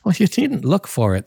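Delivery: begging him to forgive her, voice soaring high; cried out pleading. Acted. Della's high voice.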